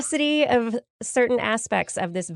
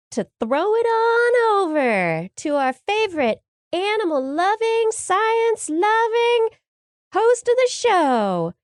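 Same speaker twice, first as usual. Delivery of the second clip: hyped intro; 11 semitones higher, 4 dB louder, slower than usual. Acted. Building up host introduction.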